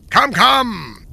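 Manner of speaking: loud impatient king. Acted. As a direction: snap at him to hurry. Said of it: "said the king, impatiently".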